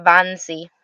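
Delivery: lightly German-sounding "Fancy" with a v; German v in place of f. Shown as a demonstration. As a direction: say "Fancy" as "Vancy", German-style. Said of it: "it sounds like German".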